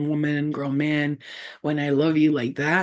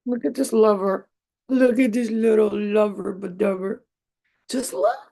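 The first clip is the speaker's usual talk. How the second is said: higher, cooing pet voice; 3 semitones higher than usual. Real, not acted. Owner coos at her beloved pet, a touch of baby talk. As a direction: coo over a cute little one.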